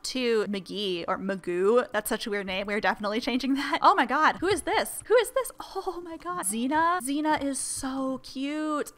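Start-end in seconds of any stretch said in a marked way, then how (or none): 3.8-8.9 high-pitched delighted squeals; excited gushing. Real, not acted. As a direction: gush over a new cute pet. Meeting new pets.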